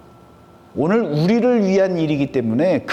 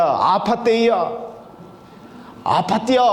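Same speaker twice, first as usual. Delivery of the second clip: Chungcheong dialect. Shown as a demonstration. Preacher quoting the local saying to congregation, Chungcheong dialect. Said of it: "우리 충청도 사투리로 뭐라고 한다고요".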